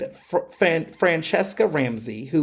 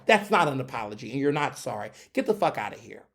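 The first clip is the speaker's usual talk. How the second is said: ordinary talk, nothing marked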